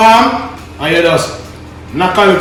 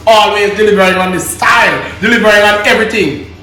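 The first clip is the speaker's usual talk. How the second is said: excited shout; 5 semitones higher, 3 dB louder, faster than usual. Real, not acted. Shouted sign-off catchphrase.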